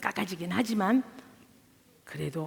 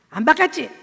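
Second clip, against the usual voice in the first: mock accusing husband; 5 semitones higher, 7 dB louder than usual.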